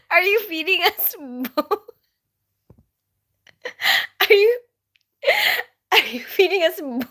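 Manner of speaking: put-on high, laughing disbelief as a teenage boy; lightly voiced son, giggling and baffled at dinner; disappointed son. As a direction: laugh through mock outrage at a plate of bone. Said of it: "He was like".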